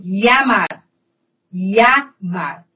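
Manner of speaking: "Llamar" with ll said as a y sound. Shown as a demonstration. Teacher showing Spanish ieísmo to students, ll as y. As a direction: say "Llamar" as "yamar". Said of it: "L eu vou pronunciar como I".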